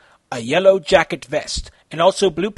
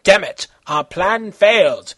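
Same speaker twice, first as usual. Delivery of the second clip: loud, furious slowed shout; angry scream; 4 semitones higher, 5 dB louder than usual. Acted. Bad guy furious at failed plan, loud angry shout. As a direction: rage at the failure. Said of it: "the bad guy screamed angrily".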